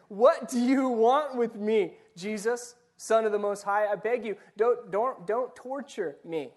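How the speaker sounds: desperate loud plea from a tormented man; shouting demon. Retold or imitated. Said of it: "shouting at the top of his voice".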